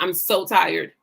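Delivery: slow, low recital of exhaustion; imitating own worn-out moaning; retold tired complaint. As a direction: drag out each complaint wearily. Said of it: "And I kept saying it".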